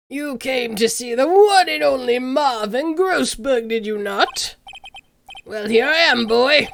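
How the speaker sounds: slow, lightly voiced old lawyer; a hint of a pompous old man; slow, self-important old attorney. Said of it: "what should his voice be?".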